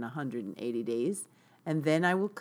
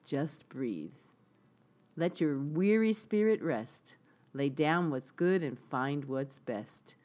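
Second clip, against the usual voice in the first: gentle spoken reading of song lyrics. Shown as a demonstration. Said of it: "read the lyrics to it".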